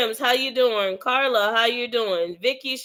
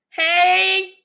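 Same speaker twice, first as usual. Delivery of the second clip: cheery hey; 8 semitones higher, 5 dB louder than usual. Shown as a demonstration.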